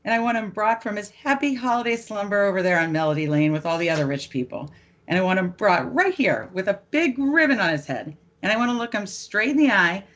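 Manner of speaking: hammed-up holiday meltdown, rattling off insults; Clark Griswold rant. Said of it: "you'll remember the Clark Griswold rant".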